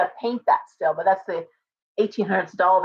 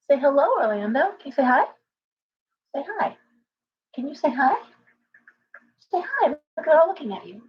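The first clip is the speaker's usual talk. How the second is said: high coaxing pet talk; 6 semitones higher than usual. Real, not acted.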